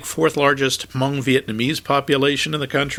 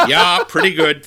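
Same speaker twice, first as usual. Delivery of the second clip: louder Minnesota "Yeah, pretty good"; Minnesota reply repeated; 4 dB louder than usual. Retold or imitated. The typical reply heard in Minnesota, in a light Minnesota accent. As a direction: repeat it with a bit more Minnesota punch. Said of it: "That's what you hear".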